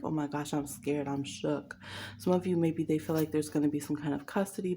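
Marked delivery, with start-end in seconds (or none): 0.0-1.8 mock frightened voice, a bit soft; lightly mocked fake fear; fake scared. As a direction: pretend to be terrified, hammed-up. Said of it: "they're pretending like".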